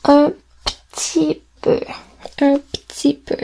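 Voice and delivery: un petit peu said slowly, petit as ptit; slow demo. Shown as a demonstration. Teacher repeats the phrase for the class. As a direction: carefully model ptit. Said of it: "People don't pronounce it petit".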